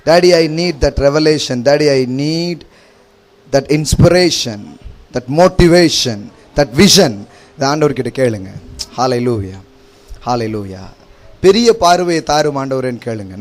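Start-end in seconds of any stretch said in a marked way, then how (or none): 0.1-7.1 slow pleading prayer. Shown as a demonstration. Preacher models a prayer to God.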